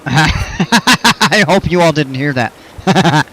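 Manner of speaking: laughing through the words, slowly; sheepish giggling apology; embarrassed laugh. Real, not acted. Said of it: "sorry, hiccup".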